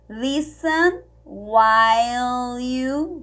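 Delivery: "Listen" said lis-en with no T; silent T. Shown as a demonstration. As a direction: drop the T in "Listen". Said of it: "a gente não fala o T".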